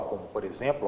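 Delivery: usual speaking voice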